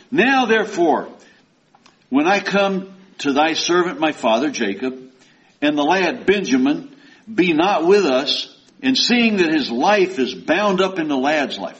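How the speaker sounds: high, loud, declaiming reading; preacher reading scripture aloud. Acted. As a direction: proclaim the verse to the congregation. Judah pleading in scripture.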